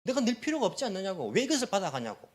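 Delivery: acted complaint with a touch of heat; heated arguing. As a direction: play someone demanding why they should pay. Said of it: "우리는 막 열받아가지고 막 따집니다".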